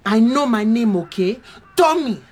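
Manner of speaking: defensive, low-pitched retort; touchy, mildly angry insistence. Acted. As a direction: push back, wounded by the pity. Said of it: "Why are you so angry?".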